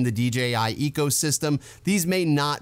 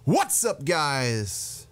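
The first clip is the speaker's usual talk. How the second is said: breathy YouTuber greeting; much slower than usual. Shown as a demonstration. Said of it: "You gotta really huh".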